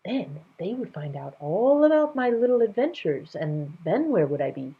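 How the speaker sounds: a hint of a mischievous king; playful king voice.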